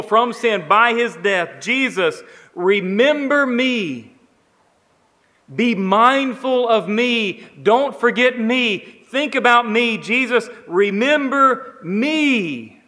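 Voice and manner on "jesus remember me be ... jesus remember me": earnest plea. Acted. Preacher voices the criminal's plea.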